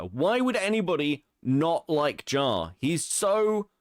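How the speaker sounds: mock praise breaking into laughter; holding back a laugh; laughing while talking. Real, not acted. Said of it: "you can't even say it without laughing".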